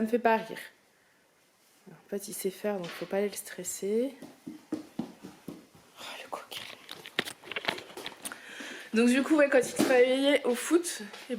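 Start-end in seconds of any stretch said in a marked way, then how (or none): 4.7-6.6 whispered fond tease. Real, not acted. Mother whispering about her cheeky son, whispered tease. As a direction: whisper it fondly.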